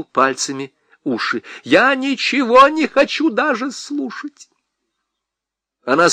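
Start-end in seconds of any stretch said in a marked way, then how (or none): 1.6-4.5 agitated. Acted. Husband denies asking, high and agitated. Fingers in ears refusing.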